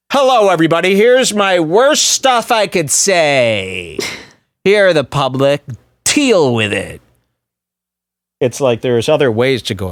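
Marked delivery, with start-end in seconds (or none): 0.1-7.0 a lightly hammed-up, higher announcer voice; mock public announcement. Pretending to announce his worst opinions to the public, mock grand. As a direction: proclaim it grandly to everyone, half-joking. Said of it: "imagine I make an announcement".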